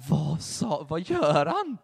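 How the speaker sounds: loud, frustrated hiss-free outburst from outside; impatient anger while keeping watch; retold anger. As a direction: urge him on angrily. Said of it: "stod jag i min ilska".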